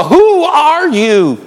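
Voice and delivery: high, long drawn-out disbelief; hammed-up amazement, stretching each word; astonished reaction. People looking at a changed believer, astonished disbelief. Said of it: "have people look at you and go".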